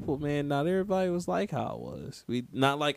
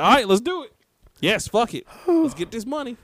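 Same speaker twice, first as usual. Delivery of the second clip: high, loud, gung-ho executives; mock eager approval; 9 semitones higher, 5 dB louder than usual. Executives approving a Skittles game pitch, mock gung-ho excitement. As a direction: burst out like you're greenlighting a silly pitch. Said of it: "And they just like".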